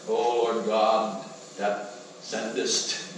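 very slow, drawn-out showy prayer; mock pompous prayer. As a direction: ham up a grand churchy prayer. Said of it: "give a beautiful prayer".

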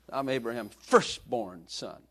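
slow, mildly puffed-up boast; mock arrogant. Preacher voicing Abraham's son bragging, slow mock arrogance. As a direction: draw out a mock brag. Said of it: "arrogant about that".

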